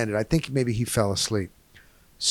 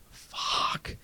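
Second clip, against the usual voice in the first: whispered curse under the breath; acted-out silent dismay, barely whispered; 13 dB quieter than usual. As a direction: curse softly to yourself, no voice. Acted dismay at full flight.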